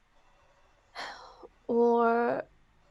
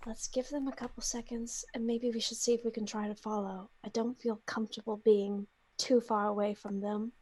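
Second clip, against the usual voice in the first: soft, hushed suggestion; Jill; 3 semitones lower, 8 dB quieter, faster than usual. Acted. Adventurer suggests following captured companions, hushed cautious voice. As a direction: keep it low and cautious, much softer. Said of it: "I think Jill's just like".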